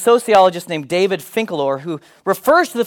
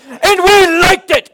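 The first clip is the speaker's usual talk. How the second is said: put-on high, slow old-timer stressing "we"; 12 semitones higher, 7 dB louder, slower than usual. Preacher mocking parents, old-timer proud of hardship. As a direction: lean on "we" like a proud grandpa. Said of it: "leads us to say things like".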